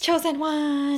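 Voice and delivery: thrilled to hear the fan title; excited exclamation. Real, not acted. Co-host hears of a new supporter, excited cry. Gasp at new chosen one.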